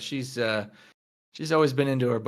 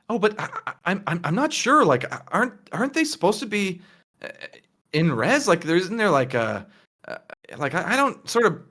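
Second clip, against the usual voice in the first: put-on higher, halting nervous girl voice; flustered Tina; 6 semitones higher, faster than usual. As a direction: stammer it out like a shy student caught off guard. Tina anxiously questions Claire.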